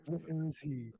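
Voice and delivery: Batman interrogation. Retold or imitated. Principal looming over the student, done as a mock Batman line. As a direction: growl it like a mock movie interrogator. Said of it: "it's like that Batman scene".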